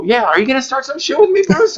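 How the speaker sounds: playful laughing dare; laughing mock challenge. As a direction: tease him with a fake threat.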